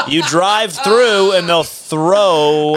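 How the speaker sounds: slow laughing delivery. Real, not acted. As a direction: laugh as you explain it. Laughing explaining drive-through festival.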